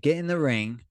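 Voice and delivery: measured, reasoning request; retold nice approach. Fighter trying the nice aspect on reluctant opponent, retold coaxing. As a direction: coax him with a mild instruction. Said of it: "I'm gonna go the nice aspect first".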